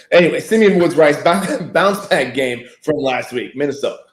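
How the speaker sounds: strained voice after choking. Real, not acted. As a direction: talk through a tickly throat. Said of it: "he is dying live".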